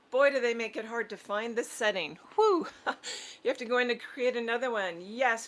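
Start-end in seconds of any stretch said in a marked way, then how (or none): 2.3-2.7 high, loud whoop of relief; real whew after a hassle; relieved whew. Real, not acted. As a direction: let out a sharp, high "whew". Relieved after struggling with settings.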